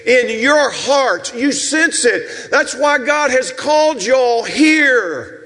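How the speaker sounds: impassioned pulpit delivery; preaching. Real, not acted. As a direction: preach it out to the whole congregation. Preaches to the congregation.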